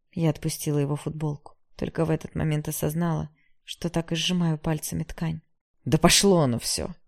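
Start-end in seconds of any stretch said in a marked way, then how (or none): 5.8-6.9 louder, exasperated yell; shouted outburst. A narrator's reading. Ignat giving up on the argument, shouting. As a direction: throw it all away with a shout. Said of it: "выкрикнул Игнат".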